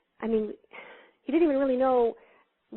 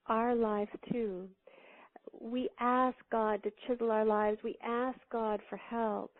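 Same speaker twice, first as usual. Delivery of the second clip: slow, soft earnest preaching; hushed slow sermon voice; slow solemn; 6 dB quieter, slower than usual. Real, not acted. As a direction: let each word land quietly.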